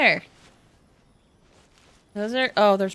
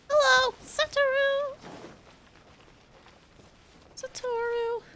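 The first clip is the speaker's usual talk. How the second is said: calling out; 11 semitones higher, slower than usual. Real, not acted. Calling to a game character.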